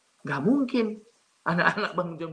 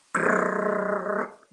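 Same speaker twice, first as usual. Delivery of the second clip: loud rolled "krrr" scrape; scratching claw noise; 4 semitones higher, 4 dB louder than usual. Retold or imitated. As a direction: imitate claws raking a wall. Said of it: "saya mendengar suara cakar".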